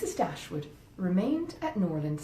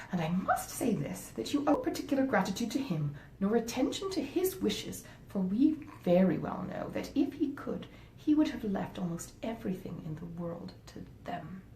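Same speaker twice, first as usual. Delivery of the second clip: scheming wife. Acted. Wife talking her husband out of helping his stepmother, coaxing. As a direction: talk him out of the money, sweetly persuasive. Fanny's final argument.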